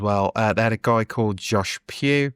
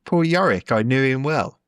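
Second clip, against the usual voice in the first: much higher, mock theatrical recital; quoting Hamlet; 5 semitones higher, 3 dB louder than usual. Shown as a demonstration. Teasing the friend who missed the Hamlet line, mock theatrical. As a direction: recite Yorick like a ham actor. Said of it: "Do you not know".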